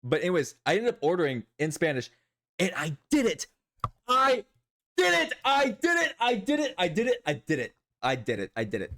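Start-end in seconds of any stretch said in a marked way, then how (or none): 2.8-8.9 triumphant cheer fading. Real, not acted. Triumphant after ordering in Spanish.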